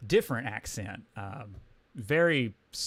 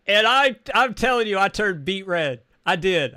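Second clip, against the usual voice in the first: loud, high, flustered insistence; excited confession; 7 semitones higher, 10 dB louder than usual. Real, not acted. Excitedly admits he blushed at her offer.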